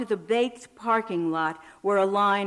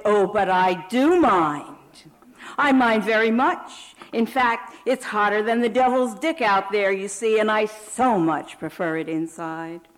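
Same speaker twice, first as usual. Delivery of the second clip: imagined sarcastic retort; 5 dB louder than usual. Pretend. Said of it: "what she would say if I responded".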